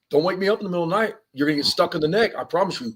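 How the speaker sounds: fast, sharp, threatening warning; stern warning. Retold or imitated. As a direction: snap it out as a threat. Warning people not to wake him.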